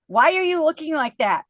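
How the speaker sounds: high, loud incredulous question; amazed friend. Retold or imitated. Friend Mary asking why she isn't miserable, high loud amazement. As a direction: play the stunned friend.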